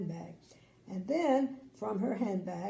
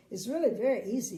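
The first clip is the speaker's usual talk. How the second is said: fast, bright and light; smiling; 3 semitones higher, 6 dB louder, much faster than usual. Acted. Little Miss Sunshine encourages the king, fast smile. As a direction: rattle it off with a smile. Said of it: "she smiled".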